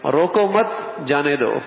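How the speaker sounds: روکو مت run together, then جانے دو; pause after مت. Shown as a demonstration. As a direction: join مت to روکو and stress it. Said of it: "کتنا فرق ہو جائے گا".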